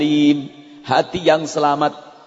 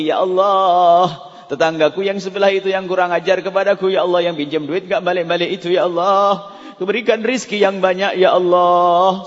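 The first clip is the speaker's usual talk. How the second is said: prayer. Pretend. Mock prayer for rude neighbour.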